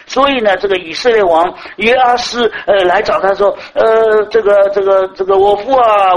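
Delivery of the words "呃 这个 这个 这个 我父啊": king crying out. Retold or imitated. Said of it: "讲了这些话， “我父啊，我父啊".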